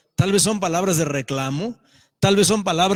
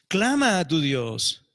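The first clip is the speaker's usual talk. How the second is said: slow, drawn-out command; captain urging Jonah to cry out; slow solemn plea; slower than usual. Acted. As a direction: lay each word down slowly.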